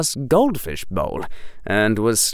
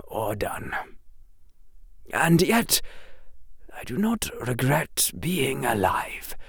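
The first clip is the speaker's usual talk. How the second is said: put-on old headmaster whisper; 2 semitones higher, 7 dB quieter than usual. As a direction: breathe it like a frail old headmaster. Dumbledore quiet.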